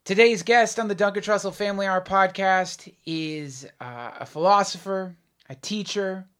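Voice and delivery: announcer-style intro read; podcast host intro. Acted. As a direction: introduce the guest like a show host.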